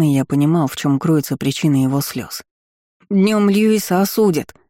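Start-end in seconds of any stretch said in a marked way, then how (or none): 3.1-4.6 high, slow, mildly tearful voice; tearful child. A narrator's reading. Boy telling countess of the coming trial, tearful. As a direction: draw it out in a child's distress. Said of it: "обливался слезами мальчуган".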